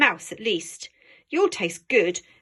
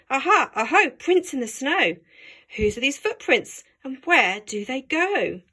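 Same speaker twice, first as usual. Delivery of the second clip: mouse voice; 4 semitones higher, 3 dB louder than usual. Acted. Mouse mocks child's rhyme.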